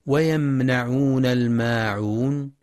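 slow tajweed recitation of the verse; Quran recitation. Shown as a demonstration. Teacher reciting the verse for students, slow chant. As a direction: chant the verse slowly and evenly.

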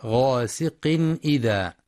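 غاسق إذا as "ghasiqin idha", crisp n; غاسق إذا with no nasal hum between; clear tanwin izhar. Shown as a demonstration. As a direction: sound the n of غاسق fully before the hamza of إذا. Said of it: "بيان الإظهار الحلقي للتنوين".

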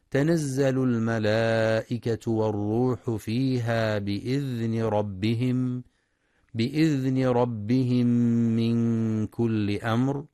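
slow, melodic tajweed chant; Quran recitation. Acted. Teacher reciting verses slowly for students. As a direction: recite with drawn-out ornamented vowels.

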